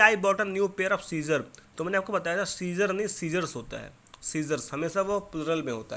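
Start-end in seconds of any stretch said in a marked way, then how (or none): 0.0-1.4 slow and a bit louder, word by word; slow dictation reading. Shown as a demonstration. Teacher reading the faulty sentence slowly to the pupils. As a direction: spell the sentence out for the class.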